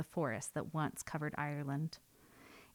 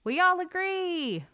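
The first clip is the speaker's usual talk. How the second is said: loud, slow chorus cry; birds shouting; 13 semitones higher, 7 dB louder, slower than usual. A narrator's reading. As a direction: call it out together. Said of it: "shouted the birds".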